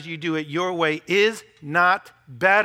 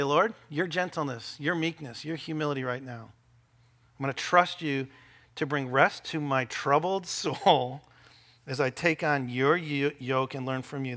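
quiet prayer; 4 semitones lower, 3 dB quieter than usual. Shown as a demonstration. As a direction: pray it gently. Modeled prayer.

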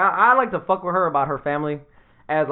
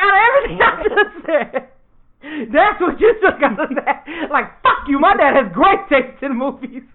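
laughing mock outrage; 5 semitones higher than usual. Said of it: "I'm like".

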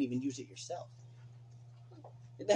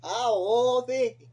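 higher, louder mock whoa, Vicky; 7 semitones higher, 6 dB louder, much slower than usual. Mimicking the reality star for his friend, higher and louder. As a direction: ham up her whoa with a rising pull. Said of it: "That's how she talk".

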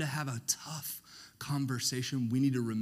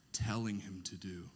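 soft unvoiced fill-in; whispered answer; 7 semitones lower, 10 dB quieter than usual. Real, not acted. Preacher whispering the answer for the crowd to finish. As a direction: breathe the answer softly.

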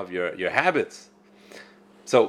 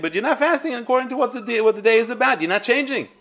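laughing emphasis; 10 semitones higher, faster than usual. Real, not acted. Rabbi laughs, driving point home.

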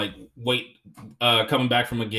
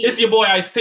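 put-on "It's your boy Ice-T" pitched up and louder, hyped; hammed-up rapper impression; 7 semitones higher, 5 dB louder than usual. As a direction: do a rapper's hype intro, exaggerated. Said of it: "that's how the fuck he talks".

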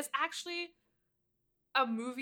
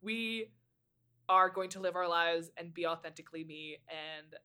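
defiant. Retold or imitated. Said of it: "and then be like".

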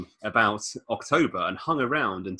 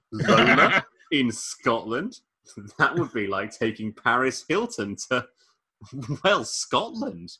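slow, lightly done Toast of London drawl; a hint of the Toast of London accent, unhurried; reading Chris's retort in a mild Toast of London accent. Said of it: "doing the fucking Toast of London accent".

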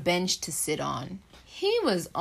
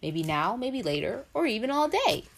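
Peanut Butter voice; 2 semitones higher, faster than usual. Acted. Parent voices Peanut Butter's refrain.

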